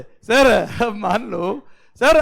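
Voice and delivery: normal talking voice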